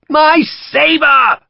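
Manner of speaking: high, loud fussy cry; protesting. A narrator's reading. The Brigadier protests being carried off, high loud old man. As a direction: wail for the lost sabre.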